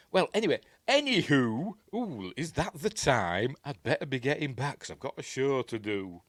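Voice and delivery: high, swooping mock-casual exit; awkward excuse-making. Projectionist backing out after the dog lie, mock awkward excuses. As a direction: make a hammed-up excuse to get away.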